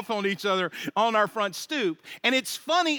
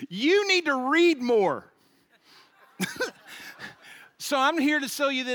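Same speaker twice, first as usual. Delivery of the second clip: pushy paperboy; 6 semitones higher, 4 dB louder than usual. Retold or imitated. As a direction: draw it out loudly as the socially clueless paperboy. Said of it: "And he goes".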